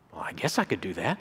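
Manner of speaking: low, soft, reluctant reply; hesitant agreement. Retold or imitated. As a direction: imitate a widow meekly giving in. Widow reluctantly accepts pastor's challenge.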